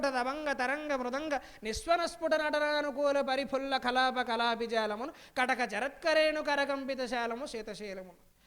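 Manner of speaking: slow, measured chanting of Telugu verse; పద్యం రాగయుక్తంగా నెమ్మదిగా; poem recitation. Acted. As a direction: draw out each compound like classical padyam. Recites padyam on Himalayas.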